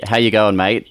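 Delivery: Aussie slang greeting said casually; Australian greeting. Shown as a demonstration. Coach showing the singer a local greeting, Australian accent. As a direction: say it as Australians would. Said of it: "as we would say in Australia".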